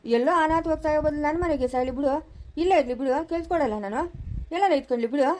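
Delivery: exasperated outburst. Acted. Pleading with God over the family quarrel, exasperated. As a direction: throw up your hands at the gods.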